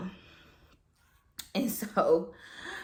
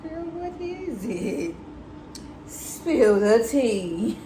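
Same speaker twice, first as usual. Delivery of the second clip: much higher, slow and eager; eager gossip; 4 semitones higher, much slower than usual. Retold or imitated. Daughter urging mom to spill news, eager and high. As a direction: lean in hungry for the news.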